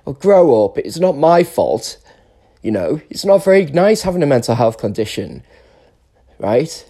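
loud, exasperated self-defence; indignant. Real, not acted. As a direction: push back at them, hurt and loud. Angry defensive complaint at listeners.

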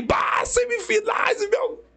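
reenacted high-pitched, drawn-out cheer; excited fan outburst. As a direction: relive the thrill of switching on the match. Reenacts cheering his team's semifinal. (torcedor empolgado, revivendo a euforia em tom agudo)

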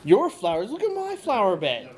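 outraged neighbor pointing at ruined flowers; old couple teasing. Acted. Neighbor quarrel in character.

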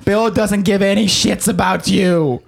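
coffee lady voice. Acted. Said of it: "coffee ladies".

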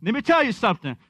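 comedian catchphrase. Retold or imitated. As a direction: play the comedian's bit again, lightly. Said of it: "He's like".

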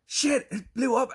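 high, slow, loud mock amazement; amazed reaction. Truck driver reacts to the explosion, imitated in loud amazement. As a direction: react as if floored by it. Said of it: "the black guy is like".

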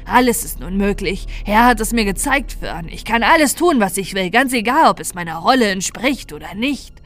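a corrupted Santa revelling in new freedom; lightly voiced triumphant villain; menacing Santa. Villain Santa's long speech.

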